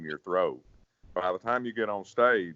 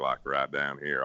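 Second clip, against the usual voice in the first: low voice demo; 5 semitones lower, 3 dB quieter than usual. Shown as a demonstration. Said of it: "I'm gonna give it to you".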